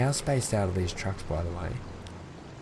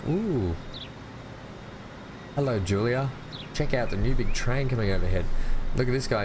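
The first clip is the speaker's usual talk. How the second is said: put-on higher, chirpy old-time bystander lady; 1940s voice; 3 semitones higher than usual. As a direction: gush like a 1940s newsreel lady. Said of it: "I slip into nineteen forties voice".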